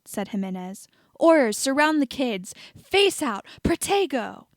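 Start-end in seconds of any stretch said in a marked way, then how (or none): 1.2-4.5 higher, louder commands; shouted orders. A narrator's reading. Jimenez ordering Aurors to protect the kids, shouting. Commanding team under attack.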